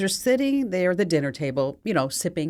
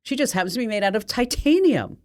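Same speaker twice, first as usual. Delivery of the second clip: smug. Acted. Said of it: "smiles smugly and says".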